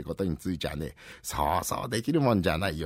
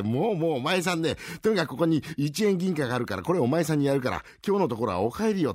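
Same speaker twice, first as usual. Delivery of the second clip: put-on pleading old man; 6 semitones higher than usual. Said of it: "もう涙を流され".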